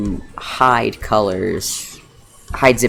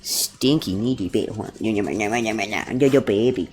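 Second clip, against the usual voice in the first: cooing at dog; 5 dB quieter, slower than usual. Real, not acted.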